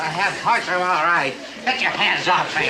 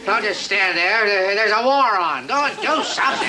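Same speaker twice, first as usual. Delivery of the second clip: angry orders; 5 semitones higher than usual. Acted. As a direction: bark orders, rattled and cross. Barks orders at subordinate.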